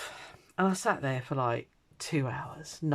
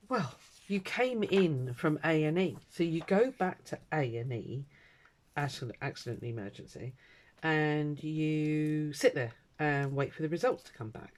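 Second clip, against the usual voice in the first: disparaging voice; 2 semitones higher than usual. Retold or imitated. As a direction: talk down to her like a child. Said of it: "in a very disparaging voice".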